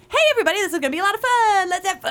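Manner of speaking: high, fast upbeat guide greeting; cheerful, breezy welcome to the group; natural tour guide. Retold or imitated. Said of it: "What voice do they want?".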